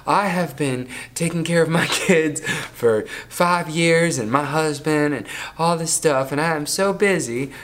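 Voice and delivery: lightly voiced busy mom; a hint of a tired mom complaining. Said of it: "That's my mom voice".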